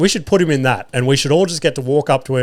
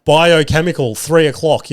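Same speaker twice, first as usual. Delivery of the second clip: raised mock battlefield call; 3 semitones higher, 4 dB louder than usual. Podcaster imitating battlefield warnings about snot, mock calling out. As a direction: call it out like a warning, a bit louder. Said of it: "start calling out".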